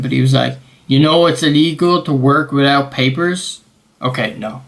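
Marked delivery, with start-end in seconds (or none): 0.9-3.6 put-on clumsy American accent, rising into a question; botched American accent. Officer questioning the traveller about papers, botched American accent. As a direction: have a poor go at an American accent. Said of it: "That accent, what am I trying to do?".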